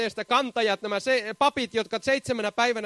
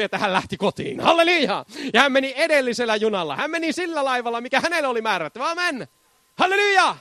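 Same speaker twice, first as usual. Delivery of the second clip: fervent preaching. Real, not acted. Pastor to congregation, fervent full-force preaching. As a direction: proclaim it to the congregation with fire.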